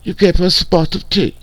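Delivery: fake-posh British, mocking tea and crumpets; mock British accent. Host mocks a streamer's fake British accent. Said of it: "fake bullshit ass British accent".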